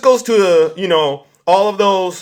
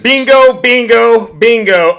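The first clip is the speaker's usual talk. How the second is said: loud, high cheering call, fading each time; triumphant bingo; 5 semitones higher, 7 dB louder, slower than usual. Real, not acted. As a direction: slam it home like a winner. Celebrating a point scored.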